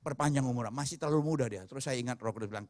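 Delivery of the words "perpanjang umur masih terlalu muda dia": subdued, softer retold plea; a hushed re-enactment of crying out; retold cry to God. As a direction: plead with God in a low, quiet voice. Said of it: "saya berteriak".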